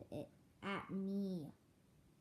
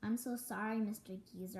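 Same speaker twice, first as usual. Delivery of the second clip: cried apology; 2 semitones higher, 4 dB louder than usual. Acted. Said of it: "I cried".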